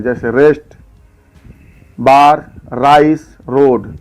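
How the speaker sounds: रेस्ट, बार, राइस, रोड each with a clear full r; full r sound. Shown as a demonstration. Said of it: "उसको पूरा र पढ़ते हैं".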